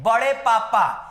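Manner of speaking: put-on drawn-out slow baby-talk; slow coaxing to a baby. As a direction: slowly coax a toddler to repeat. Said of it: "क्या बोलते हैं?". (धीरे से बच्चे को सिखाते हुए)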